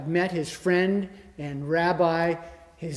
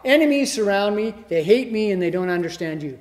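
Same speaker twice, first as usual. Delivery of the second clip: pleading cry of David, louder; voicing David's plea; 3 semitones higher, 7 dB louder than usual. Preacher voicing King David crying for help. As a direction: cry out to God as the hunted king. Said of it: "I probably don't have that in his voice".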